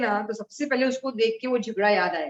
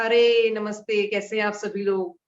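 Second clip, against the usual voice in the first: friendly greeting. Shown as a demonstration. Teacher demonstrating how to greet everyone, friendly and welcoming. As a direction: greet the whole group cordially. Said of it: "जब हम लोग इस तरीके से किसी से मिलते हैं".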